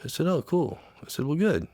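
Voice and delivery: high voice, halting as emotion takes over; real lump in the throat, breaking off; choked up. Real, not acted. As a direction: struggle to get the words out without crying. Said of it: "I don't know why I get like this".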